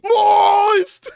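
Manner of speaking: loud high yell of the catchphrase; shouted Moist. Pretend. Streamer yelling the car ad slogan, full shout. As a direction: belt out the brand name.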